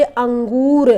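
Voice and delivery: अंगूर said slowly with the nasal ं through the nose; slow nasalised अंगूर for the class; nasal demo. Shown as a demonstration. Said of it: "अंगूर नाक से आवाज़ आ रही है".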